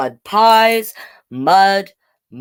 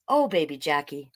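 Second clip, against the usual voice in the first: put-on hushed and softer to the baby; soft whisper; 3 semitones lower, 7 dB quieter than usual. Big sister whispering softly to baby Jackie. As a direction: breathe it gently over a sleeping baby. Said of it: "I whisper".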